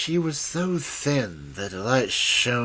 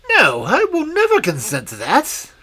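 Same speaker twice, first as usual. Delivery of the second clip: higher, louder prince refusing; a young prince standing his ground; lightly voiced defiant prince; firm refusal; 11 semitones higher, 7 dB louder than usual.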